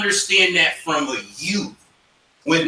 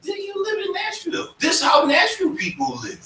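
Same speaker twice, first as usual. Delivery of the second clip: mocking local; 14 semitones higher, 3 dB quieter than usual. Nashville locals tell the Harlem kid how they live, high taunting. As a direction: rib the newcomer with a shout. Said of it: "people in Nashville told that Harlem kid".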